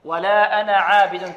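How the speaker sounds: أنا with a short final a; recited with no long alif in أنا; alif dropped. Shown as a demonstration. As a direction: move straight from أنا to عابد without lengthening. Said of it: "لا نزيد الألف نطقا".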